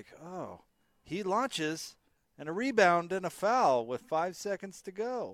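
sports announcer play-by-play voice. Describing a bad basketball shot, imitating the sports announcer's call. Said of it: "you can hear it in the announcer's voice".

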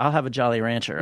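ordinary talk

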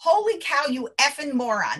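mock all-out screaming, high, loud, swearing. Recalling a driver who nearly hit the car, the speaker retells own screaming. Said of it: "and I'm just screaming".

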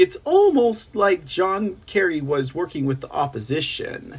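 normal talking voice

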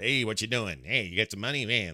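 goblin character voice. Praising a game expansion's voice acting, imitating how goblins talk: goblin voice. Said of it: "you hear like a goblin do this".

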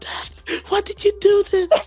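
fake breathless gasping voice. Recapping a scene where a father punches his son, imitating Mark gasping. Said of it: "he had that little gasping voice like".

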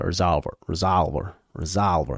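"resolver" pronounced the American way, repeated. Explaining DNS, contrasting British and American ways of saying a word: American pronunciation. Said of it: "That's how the American way say it".

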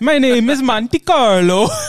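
put-on Italian accent. Inventing an Italian name during a joke, speaking in a put-on Italian accent. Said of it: "I was actually thinking of a real Italian accent, like from Italy".

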